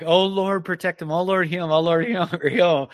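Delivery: mild imitation of a sobbing plea; repeated urgent prayer, lightly tearful; retold sobbing prayer. Father prays over his injured son, sobbing prayer retold. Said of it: "as I was sobbing over him".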